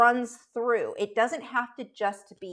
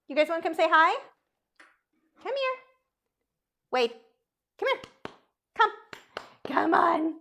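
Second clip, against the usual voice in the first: high, sing-song call to the dogs; 8 semitones higher, 4 dB louder than usual. Real, not acted. Owner calling her dogs to come say hi, high coaxing call. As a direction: coax the lazy dogs to come over.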